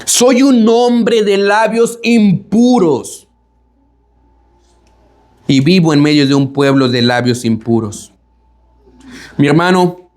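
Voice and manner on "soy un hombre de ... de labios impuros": lamento lento y arrastrado; confesión lenta y dolida; lamento de Isaías. Retold or imitated. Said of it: "Él está diciendo". (Isaías confiesa su maldad, con un lamento lento)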